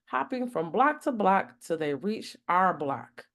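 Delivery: warm, lively storybook narration; reading to children. Acted. Reading Santa in the City to kids, animated narration. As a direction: read it aloud for a young audience.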